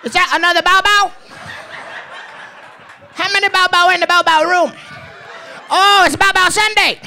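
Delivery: very high, excited mock Asian dealer accent; hammed-up Asian dealer, squealed high; happy Asian dealer. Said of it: "I perfected that voice".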